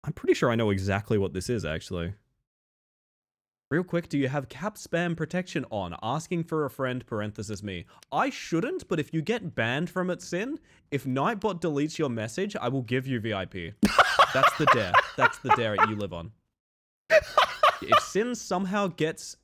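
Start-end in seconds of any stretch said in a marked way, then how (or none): 3.7-13.7 softer, flat chat read; reading lowercase style. Shown as a demonstration. Streamer reading a chat message aloud in lowercase style, softly. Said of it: "read this lowercase style". 13.8-19.3 talking through laughter; laughing. Real, not acted. Streamer laughing at chat's dare, laughing while talking.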